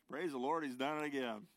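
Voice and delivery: joyful exclamation. Acted. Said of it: "Lester is referring to the story".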